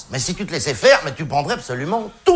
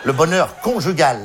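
"conjugal" with CON set apart and stressed. Shown as a demonstration. Comic mocking married life, CON stressed in "conjugal". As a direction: lean on the first syllable of "conjugal". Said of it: "la première syllabe est très claire".

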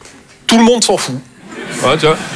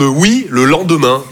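slow, drawn-out reply; slow old parents; 4 semitones lower, slower than usual. Retold or imitated. Parents answering a text, slowly. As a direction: stretch it out like someone with all the time. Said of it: "Ils me répondent".

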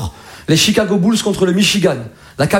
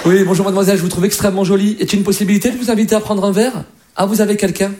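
classy Parisian flirt. Retold or imitated. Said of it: "quand il drague, c'est quand même classe".

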